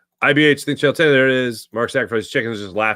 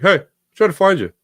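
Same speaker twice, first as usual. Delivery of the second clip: higher, louder imitation of dad; dad's voice; 6 semitones higher, 5 dB louder than usual. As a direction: do your dad's fussy phone voice. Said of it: "This is the voice my brother and I both do for my dad".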